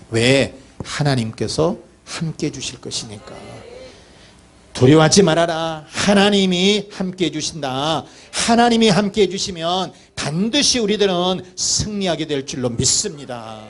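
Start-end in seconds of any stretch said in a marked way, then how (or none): 4.7-13.6 raised, declaring preacher's voice; emphatic preaching. Real, not acted. Preacher assuring the congregation that God is with them, emphatic preaching. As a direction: proclaim it with conviction, then settle at the close.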